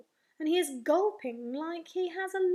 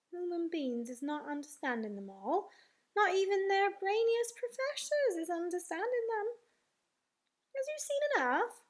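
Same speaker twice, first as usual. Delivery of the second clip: lightly voiced friendly giant; 4 semitones higher than usual. BFG figure speaking in the story.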